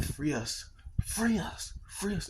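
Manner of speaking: half-voiced retold yell; mock yelling. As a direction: imitate a repeated yell, pitch climbing. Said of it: "keep yelling".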